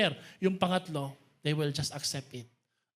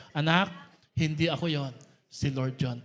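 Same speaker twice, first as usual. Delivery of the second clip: group recital; 3 semitones lower than usual. Shown as a demonstration. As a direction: lead everyone in saying it together. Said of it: "Sabay-sabay tayo, ready, go".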